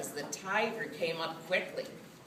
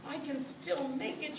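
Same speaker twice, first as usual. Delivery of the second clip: self-encouragement; 9 semitones higher than usual. A narrator's reading. Cat telling herself to keep swimming, high self-encouraging voice. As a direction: pitch it up, talking yourself on. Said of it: "she told herself".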